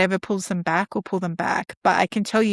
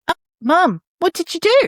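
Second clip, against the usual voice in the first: high, louder mock outrage; mock shock; 9 semitones higher, 5 dB louder than usual. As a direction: play along, gasping at mum.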